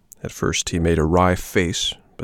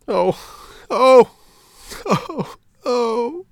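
rising sobbing wails, loudest on the second oh; crying wail; 4 dB louder, much slower than usual. Acted. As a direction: howl like a heartbroken puppet. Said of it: "began to cry and to roar so loudly".

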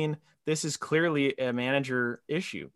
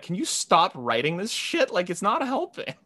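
mock McDavid; 5 semitones higher than usual. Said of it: "McDavid's like".

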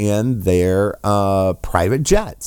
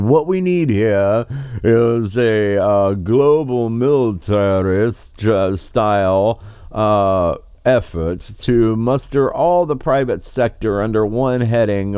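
slow, drawn-out pompous mimic of Charles; mocking Prince Charles paraphrase; slower than usual. Host mocks Prince Charles's speech, slow pompous parody. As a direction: stretch each phrase out like a lofty royal decree.

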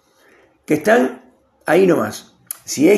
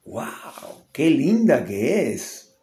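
admiring gasp; 5 dB quieter, much slower than usual. Retold or imitated. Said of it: "y le enseña la foto".

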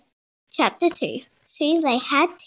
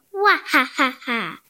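acted boo-hoo wail; mock wail. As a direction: pretend crying in separate bursts. Hungry trapped character wailing in story.

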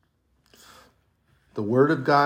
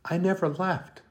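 put-on higher, gently insistent voice of God comforting his child; voicing God tenderly; 3 semitones higher than usual. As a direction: speak as a loving Father reassuring the believer. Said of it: "he shakes his head and he goes".

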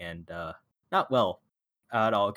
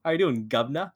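hammed-up British "guv'nor", higher and rising; mock British accent; 4 semitones higher than usual. Podcaster mimicking American actors in an old film, mock British accent. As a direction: imitate Americans faking a British greeting. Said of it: "to put on a British accent, they went".

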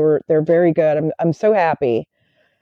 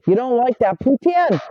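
higher-pitched mock Canadian accent; 4 semitones higher than usual. Southerner mimicking Canadians offering poutine, mock Canadian accent. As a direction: imitate a Canadian saying poutine their way. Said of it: "but they call it".

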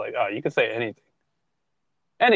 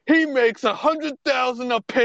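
angry fan rant; 10 semitones higher than usual. Retold or imitated. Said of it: "the other camp was".

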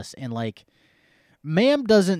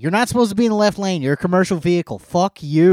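loud, high furious yelling; road rage rant; 6 semitones higher, 8 dB louder than usual. Real, not acted. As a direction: yell at the truckers hogging the lane.

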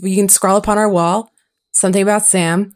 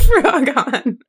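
laughing; 6 semitones higher than usual. Real, not acted. Laughing at the Frogon typo.

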